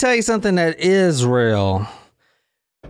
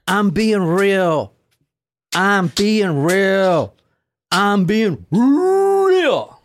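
put-on slow, drawn-out drunk insisting; drunk insistence; 3 semitones higher, much slower than usual.

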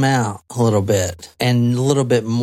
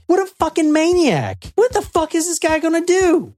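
much higher, strained inner voice; terrified thoughts; 13 semitones higher than usual. Retold or imitated. Nicole in the basement fearing the maniac, higher and panicky. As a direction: voice the captive panicking about what he'll do.

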